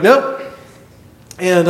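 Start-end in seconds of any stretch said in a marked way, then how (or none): 0.0-0.4 short, high rising denial; unbothered colleague. Retold or imitated. Colleague insisting he smells nothing, high-pitched denial. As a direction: toss it up high as a verdict. Colleague repeats his verdict.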